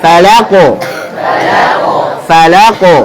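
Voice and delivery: "falaqo" with a light la and heavy qo; thin la, thick qo. Shown as a demonstration. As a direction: keep la thin, then round out a thick qo in "falaqo". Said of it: "lanya tipis dulu, qafnya tebal".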